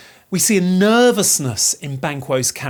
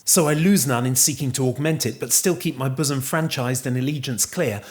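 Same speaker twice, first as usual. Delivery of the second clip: a hint of character, sinking lower and softer; lightly voiced Banquo; 4 semitones lower, 4 dB quieter than usual. Banquo answering Macbeth's offer of honour, lightly voiced and sinking softer. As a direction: quote it lightly in role, easing down low. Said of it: "look how Banquo responds".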